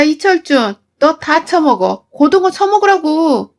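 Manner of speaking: 시댁 식구에게 터뜨리는 화, 다시 재연; 점점 높아지다 남편에게 소리치듯; 폭발한 분노. Retold or imitated. 폭발했습니다. (시어머니와 남편에게 폭발하는 며느리 재연)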